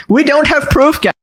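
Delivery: skeptical Hassan. Retold or imitated. Video host quoting a streamer's doubts, skeptical. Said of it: "Hassan gets skeptical and goes".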